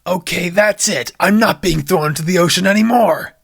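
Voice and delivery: mildly angry outburst; a hammed-up had-enough rant; fed up. Soaked D J rises from the ocean, mock furious. DJ furious after being thrown.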